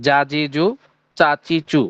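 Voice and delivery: "জা, জি, জু, চা, চি, চু" with pure Arabic long a, i, u; Arabic-style vowels. Shown as a demonstration. Teacher shows reading with harakat, Arabic-style "জা, জি, জু, চা, চি, চু". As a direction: recite "জা, জি, জু, চা, চি, চু" as Arabic syllables. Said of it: "আরবির মতনই হবে".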